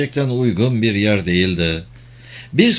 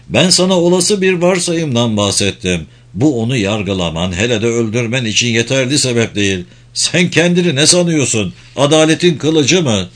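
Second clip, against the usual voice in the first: raised, heated reprimand; angry scolding; 3 dB louder than usual. Acted. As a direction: scold her, voice rising. Brother scolds sister over murder.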